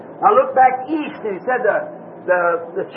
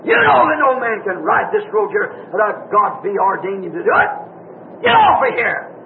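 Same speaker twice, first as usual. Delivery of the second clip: commanding shout; 3 semitones lower than usual. Retold or imitated. The rider commanding the rival horseman off the road, shouting. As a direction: order the intruder off the road, building to a cry. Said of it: "called the man by name and said".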